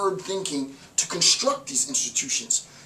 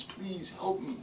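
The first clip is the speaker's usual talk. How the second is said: soft, higher, pathetic pleading voice; mock beggar pleading; 4 semitones higher, 6 dB quieter, slower than usual. Lecturer mocking someone begging the institution, soft and higher. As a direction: whimper like a weak beggar. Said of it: "asking for alms".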